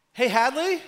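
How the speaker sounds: loud, high call across the house; loud high call to Hadley. Retold or imitated. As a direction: yell for the daughter down the hall. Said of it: "And I go".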